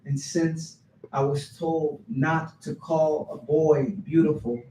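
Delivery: poem told phrase by phrase, with swells; spoken-word storytelling. Acted. Poet tells audience about first haircut, animated poem reading. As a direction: recite it with a laugh breaking through.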